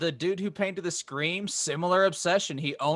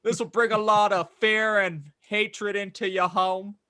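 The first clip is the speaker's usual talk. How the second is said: put-on British accent; 4 semitones higher than usual. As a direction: ham up a fake British accent. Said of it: "That's my British accent".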